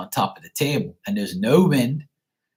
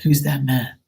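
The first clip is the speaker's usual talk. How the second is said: higher-pitched, teasing-the-dog question; prompting the dog; 5 semitones higher than usual. Retold or imitated. Owner acts out asking dog about the man, high-pitched prompting. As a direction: lift the pitch as if to a pet.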